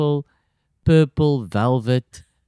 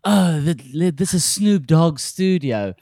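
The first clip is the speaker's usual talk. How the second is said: Cribs host; 3 semitones higher, slower than usual. Retold or imitated. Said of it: "like if you watch Cribs on M T V".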